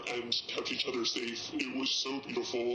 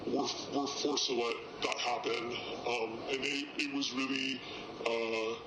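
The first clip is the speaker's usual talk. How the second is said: distorted, pitched-down anonymous voice; disguised deep voice. Real, not acted. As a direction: voice disguised for safety. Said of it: "Their voice has been distorted for their safety".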